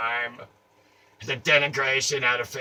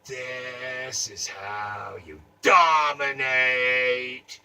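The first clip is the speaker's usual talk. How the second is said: booming wrapper voice; much slower than usual. Acted. Gum wrapper proclaiming its secret, booming slow. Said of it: "And it said".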